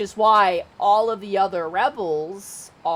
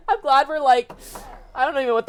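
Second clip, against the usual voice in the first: laughing; 6 semitones higher, 6 dB louder, much faster than usual. Real, not acted. Laughing at own summary.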